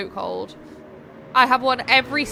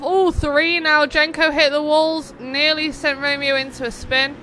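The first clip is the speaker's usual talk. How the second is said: excited commentary; 3 semitones higher, 4 dB louder than usual. Real, not acted. Race caster calling a crash, excited and louder. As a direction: rise up with the action as the car hits.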